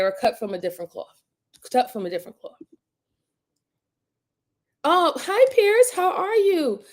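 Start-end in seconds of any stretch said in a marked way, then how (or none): 4.8-6.8 high, bright hello; excited greeting. Real, not acted. Greeting Pierce in chat, high and bright. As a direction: lift the voice up to greet him.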